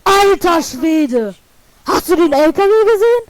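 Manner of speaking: excited to buddy about truck. Real, not acted. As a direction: blurt out the amazement.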